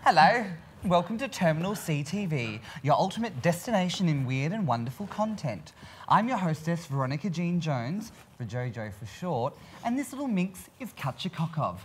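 campy drag queen hostess voice; sassy showbiz welcome, hammed-up. Drag hostess opens the show.

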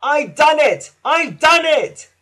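loud, high victorious cry; panted triumph. A narrator's reading. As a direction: crow it with puffed-out triumph. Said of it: "panted Thomas".

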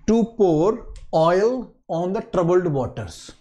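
slow, carefully spaced "to pour oil on the troubled waters"; teacher reading the new idiom slowly for students. Shown as a demonstration. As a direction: present the idiom slowly to the class. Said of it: "I am sure you don't know this idiom".

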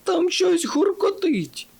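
high, strained whispery cry; alarmed exclamation. A narrator's reading. Dumdidum warning friends of rumbling ahead, exclaiming. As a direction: draw it out high and airy. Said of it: "вигукнув Думдідум".

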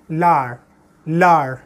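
लार as French l'art, t silent; लार spoken as French l'art; French pronunciation. Shown as a demonstration. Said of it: "how I am pronouncing it".

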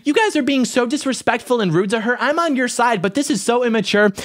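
high-pitched imitation of an indignant young woman; mock scolding girl. Girl getting in the boys' faces, high mock scolding. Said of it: "she gets right in our face and she's like".

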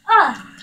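short loud yelp; yelp of pain. Real, not acted. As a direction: cry out as if just hit. Hurt in the game.

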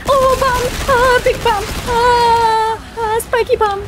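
startled yells at bombs; panicked yelling. Real, not acted. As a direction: yelp out in panic.

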